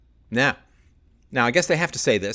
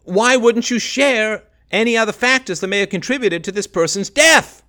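normal talking voice

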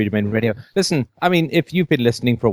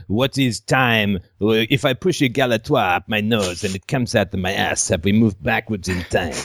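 mock philosopher. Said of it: "Or is it all like".

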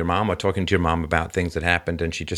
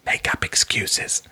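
slow unvoiced whisper; slower than usual. Real, not acted. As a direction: whisper it knowingly. Answering own question, whispered.

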